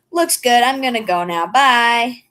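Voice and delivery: mock breezy self. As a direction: toss off a satisfied "Looks good" and leave. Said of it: "that kind of person who's like".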